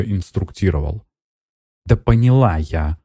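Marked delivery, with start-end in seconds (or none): 1.9-3.0 annoyed. Acted. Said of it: "с досадой сказала она".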